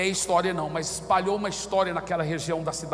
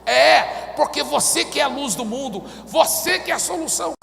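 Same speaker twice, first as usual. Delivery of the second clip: raised, louder insistence; emphatic; 7 semitones higher, 6 dB louder than usual. Retold or imitated. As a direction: drive the point home. Pastor's emphatic answer.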